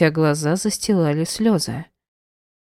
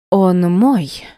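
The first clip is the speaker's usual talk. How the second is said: cold, louder restatement; cold repetition; 5 dB louder than usual. A narrator's reading. Wife repeating her claim, coldly. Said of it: "повторила она холодно".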